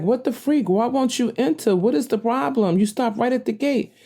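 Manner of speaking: venting at a driver who won't come in; exasperated inner outburst. Retold or imitated.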